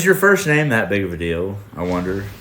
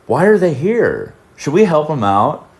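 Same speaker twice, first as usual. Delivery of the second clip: concerned; 3 semitones higher, 3 dB louder than usual. Retold or imitated. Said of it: "genuine awash of concern".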